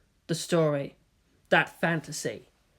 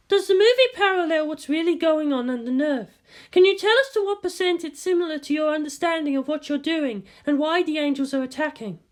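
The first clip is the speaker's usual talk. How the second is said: higher voiced eager reporter; reporter's voice; 10 semitones higher than usual. A narrator's reading. Reporter questioning Shinji at the press event, higher voiced. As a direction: press him with a pointed question.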